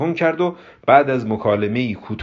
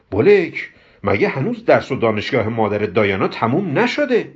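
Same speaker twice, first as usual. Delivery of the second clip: high exclamation, then puzzled question; surprised; 4 semitones higher than usual. Acted. Hamud asks about the mother's studies, surprised. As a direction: ask in mild astonishment. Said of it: "با تعجب گفت".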